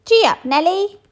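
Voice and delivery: high, loud gee-up; rider's call. A narrator's reading. Little skeleton rides the elephant, calling out loud. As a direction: urge the elephant on. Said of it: "the little skeleton said".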